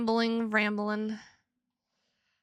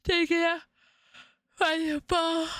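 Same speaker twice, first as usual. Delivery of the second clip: higher repeat; 6 semitones higher than usual. Retold or imitated.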